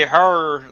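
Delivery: "her" with a strong r-coloured vowel; St. Louis pronunciation. Shown as a demonstration. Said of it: "they say, you know, here different".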